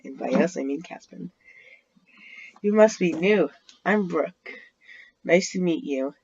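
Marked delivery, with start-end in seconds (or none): 2.6-6.1 bright bubbly girl, lightly voiced; perky greeting to the new boy; a hint of a perky schoolgirl. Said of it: "in a perky voice".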